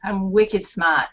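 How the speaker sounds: slow, drawn-out Boston accent. Shown as a demonstration. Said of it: "I can only talk in a Boston accent if I try".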